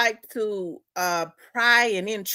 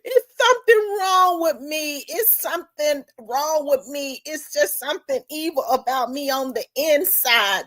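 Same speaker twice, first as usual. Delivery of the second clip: higher, tearful mock sobbing; imitated crying; 6 semitones higher than usual. Killer confessing to his girlfriend, imitated crying. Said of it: "he was just a crying".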